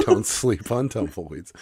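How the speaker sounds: slow, laughing repeat. Real, not acted. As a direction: chuckle through the slogan.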